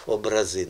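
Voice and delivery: "образи" with the weight on final ЗИ; "образи" as обраЗИ, end syllable strong; stress on last syllable. Shown as a demonstration. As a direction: land on ЗИ in "образи". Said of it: "Останній на останній склад".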